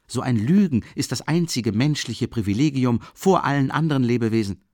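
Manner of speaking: put-on drunken student holding forth, loud; heated Razumikhin. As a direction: lecture them, carried away. Razumikhin's tipsy tirade.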